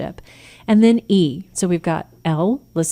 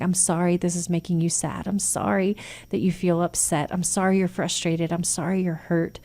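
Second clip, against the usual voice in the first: softer, tender and sincere; gentle validation; 6 dB quieter than usual. Shown as a demonstration. Parent comforting an upset teen, soft and sincere. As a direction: ease the words out to comfort. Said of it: "validate their feelings in the moment".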